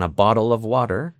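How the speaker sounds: American flap T in "bottle" and "water"; American accent. Shown as a demonstration. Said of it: "en americano".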